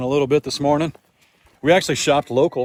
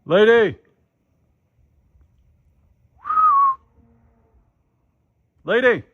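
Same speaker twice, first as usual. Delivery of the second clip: calling the pig; 10 semitones higher than usual. Real, not acted. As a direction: holler for her across the field.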